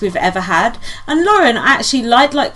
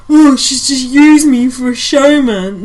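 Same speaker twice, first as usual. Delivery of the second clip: whiny mock quote; 6 dB louder, slower than usual. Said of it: "he's in bed going".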